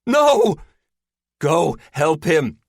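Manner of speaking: high, loud urgent order; yell. A narrator's reading. Hurt woman sending Linda after Lester, yelling. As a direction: yell at them to go. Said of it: "Terry yells at Linda".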